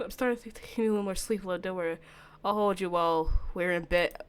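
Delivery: a hint of a hushed, menacing lover; lightly voiced calm stalker, soothing and sinister. Takuya voiced again.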